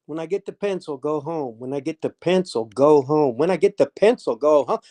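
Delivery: repeating it to yourself, low-key; acted self-talk, dropping on "go home"; talking to himself. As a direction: mull the phrase over like a puzzle. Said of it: "I'm talking to myself".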